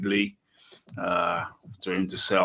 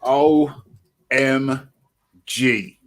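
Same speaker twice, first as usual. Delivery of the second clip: shocked; 5 semitones higher, 8 dB louder, much slower than usual. Real, not acted. Reacts to empty undercard.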